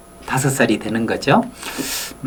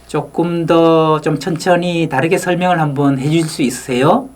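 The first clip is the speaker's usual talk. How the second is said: 천천히 공손하게 부탁하듯; 상대를 높이며 조심스럽게 묻기; 정중한 질문. Retold or imitated. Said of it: "이렇게 얘기를 하더라고요". (발표자에게 묻는 교수, 느리고 공손하게)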